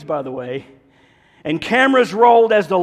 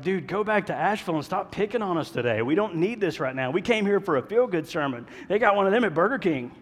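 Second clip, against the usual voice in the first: mock annoyed churchgoer. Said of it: "You're like".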